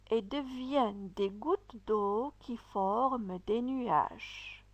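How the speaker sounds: measured, clear reading of the passage; careful classroom reading; teacher read-aloud. Shown as a demonstration. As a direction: read it out for pupils to follow. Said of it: "je vais lire".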